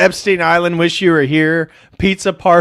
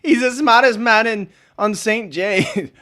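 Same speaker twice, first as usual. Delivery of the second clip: light imitation of a computer voice, a bit higher; Stephen Hawking voice; 7 semitones higher than usual. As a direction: quote it like Stephen Hawking's speech synthesizer. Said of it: "My favorite was the Stephen Hawking".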